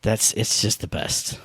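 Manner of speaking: slow, soft breathy whisper of bliss; blissful whisper. Real, not acted. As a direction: sigh it out, dreamy and hushed. Blissful afterglow of game love.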